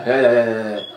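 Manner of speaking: loud, insistent calls of hey; barking orders. Shown as a demonstration. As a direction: shout it like a bossy stage manager. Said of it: "And not in a, in a".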